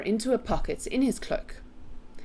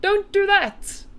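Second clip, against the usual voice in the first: high, loud, drawn-out order; pained yell; 7 dB louder, slower than usual. A narrator's reading. BFG telling Sophie off, high slow yell. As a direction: giant yelling to make it stop. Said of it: "yelled the B F G".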